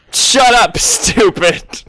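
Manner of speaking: loud brutish taunt; gamorrean shout. Acted. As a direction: bark the insult at them.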